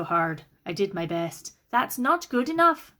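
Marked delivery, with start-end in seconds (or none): 1.7-2.9 higher, louder and slow; indignant. A narrator's reading. Kate rejecting her brother's excuse, slow loud indignation. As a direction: press each word with hurt anger.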